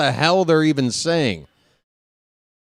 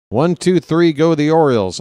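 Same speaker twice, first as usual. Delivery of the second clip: louder and higher, ringing out the count; excited inning call; 3 semitones higher, 5 dB louder than usual. Real, not acted. Announcer closing the inning, excited count. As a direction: count them off with a cheer.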